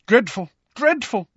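high, self-important disapproval; pompous tutting. A narrator's reading. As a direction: pronounce it with grand disapproval. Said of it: "shaking his head pompously".

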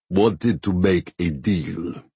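deep, nasal, slow voice; a deep nasal rumble. A narrator's reading. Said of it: "in his deep, nasal voice".

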